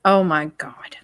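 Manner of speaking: unvoiced disbelieving whisper. Real, not acted. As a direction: breathe it out in disbelief. Stunned by repeated question.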